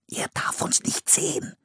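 eindringliches Flüstern; geflüstert. A narrator's reading. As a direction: warnend hauchen, damit keiner hört. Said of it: "flüsterte Philipp". (Philipp warnt Anne flüsternd)

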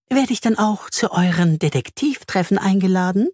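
high-pitched spider voice; high storybook spider question; spider asking. A narrator's reading. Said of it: "fragt die Spinne".

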